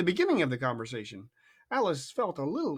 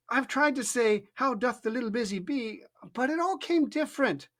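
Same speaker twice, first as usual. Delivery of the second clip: melancholy; 9 semitones higher than usual. A narrator's reading. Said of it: "in a very melancholy voice".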